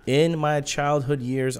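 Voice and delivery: ordinary talk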